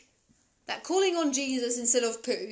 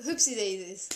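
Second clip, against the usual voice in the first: Notting Hill quote; 4 semitones lower than usual. Retold or imitated. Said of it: "what does he say?".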